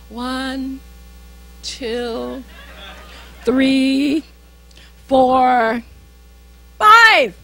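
slow deliberate count to calm down; counting to five. Retold or imitated. A believer counting down to keep from snapping. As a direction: count it out slowly, holding your temper. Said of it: "so you're not gonna say".

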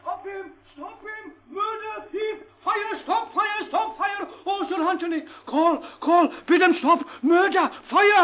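frantic repeated cries for help; calling out alarm. Acted. Servant crying murder and fire to stop the captain, calling out. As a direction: raise the house, shout after him.

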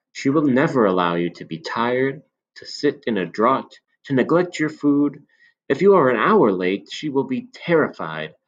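put-on a knowing old shopkeeper confiding; old man. Old man voiced in story.

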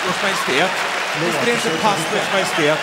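put-on high squeaky kid voices bickering; childish bickering. Two rivals bickering like kids over the king, squeaky high.

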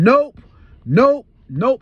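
loud, emphatic repeated no; stubborn retold refusal; firm refusal. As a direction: shut it down hard. Refusing the demonic offer.

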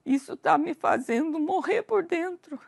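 a desperate, near-breaking prayer to God; tearful prayer. Retold or imitated. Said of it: "chorando, chorando".

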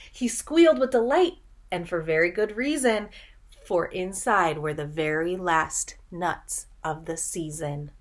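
put-on lilting read-aloud rhythm for children; storybook narration. A narrator's reading. Teacher reading a picture book to children, lilting. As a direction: read the rhyme like a bedtime story.

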